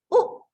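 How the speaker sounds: "oh" said short and sharp; a clipped short "oh" demo; short o sound. Shown as a demonstration. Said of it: "short sound".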